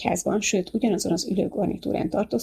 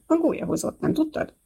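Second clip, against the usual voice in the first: lightly voiced playful mother, pitched higher; joking mother; 9 semitones higher than usual. A narrator's reading. Mother teasing her curious little daughter, playful higher voice. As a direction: tease the child with a joke, a bit higher. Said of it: "anyukája viccel ütötte el a kérdést".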